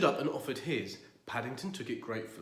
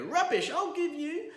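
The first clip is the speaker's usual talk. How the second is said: angry; 6 dB louder than usual. Acted. Angry neighbour.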